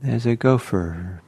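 unhurried meditation guidance with long pauses; calm guided-meditation delivery, phrase by phrase. Real, not acted. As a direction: gently guide them into settling, leaving space between phrases.

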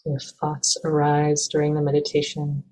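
calm, even meditation guidance with long pauses; measured, unhurried meditation teacher; guided meditation. Acted. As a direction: gently guide listeners into stillness, leaving space between phrases.

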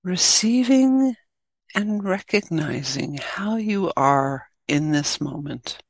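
guided meditation. Acted. Teacher leading listeners into the practice, guided meditation. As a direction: guide listeners gently, leaving long pauses.

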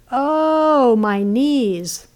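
high wailing "Oh" that falls back; hammed-up lament; mock wailing. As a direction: moan it like a tragic lament. Ereshkigal wails to the creatures.

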